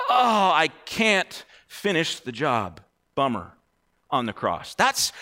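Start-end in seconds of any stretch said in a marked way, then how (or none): 0.1-3.5 mock defeated. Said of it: "he's not, like, defeated".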